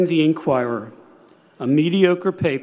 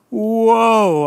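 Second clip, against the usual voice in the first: high, loud "whoa" of amazement; retold jolt of surprise; amazed; 6 semitones higher, 7 dB louder than usual. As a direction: let out a big, astonished whoa. Retold amazed reaction to scoop.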